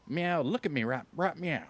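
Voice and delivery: high, squeaky meowing voice; cat voice. Pretend. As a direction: act like a silly cat. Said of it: "Did he just say meow?".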